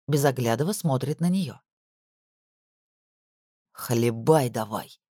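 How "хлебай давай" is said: low, slow contemptuous mutter; muttered through teeth. A narrator's reading. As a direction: grind the order out low. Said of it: "процедил Лопухов".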